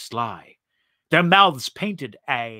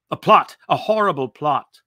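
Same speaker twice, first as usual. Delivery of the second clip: groaning outburst; 2 semitones higher, 4 dB louder than usual. Acted. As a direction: blurt a plot out in distress. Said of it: "He groaned".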